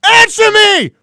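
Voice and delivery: high, explosive mock tirade; Christian Bale. Actor demands answers from the guy, screaming. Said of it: "he's yelling at the guy".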